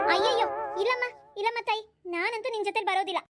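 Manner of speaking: exclaiming refusal. Acted. Woman turning down a wedding invitation, protesting. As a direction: refuse emphatically, pitch jumping up.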